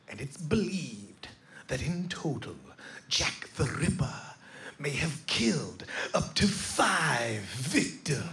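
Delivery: slow, breathy English ghost-tour whisper; a slow, hushed British whisper for the big reveal; dramatic British whisper. Retold or imitated. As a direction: whisper the finale like a doom-laden British guide. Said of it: "this is where he just sends it home".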